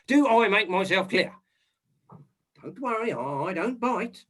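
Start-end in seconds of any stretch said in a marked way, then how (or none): 2.6-4.2 gentle reassurance. Acted. Inspector reassuring frightened maid.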